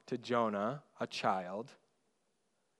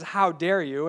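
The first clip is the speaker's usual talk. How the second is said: loud, raised mock outrage; indignant master; 5 semitones higher, 7 dB louder than usual. Master rebuking the unforgiving servant, retold indignation. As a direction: rebuke him as an affronted master, louder and higher. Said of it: "and he says".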